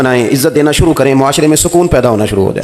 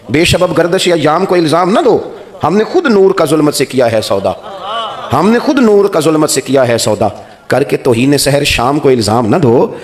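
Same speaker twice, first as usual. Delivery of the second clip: slow, measured verse, a little raised; poem recitation; 3 semitones higher than usual. Acted. Preacher reciting verse to the congregation, slow and solemn. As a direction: recite the couplets with weight and slowness.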